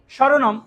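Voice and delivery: স্বরনাম said "shoronom", with sh; palatal sh. Shown as a demonstration. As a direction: start স্বরনাম with tongue near the palate. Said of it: "স্বরনাম তো উচ্চারণ হচ্ছে". (স্বরনাম-এর শুরুতে তালব্য শ)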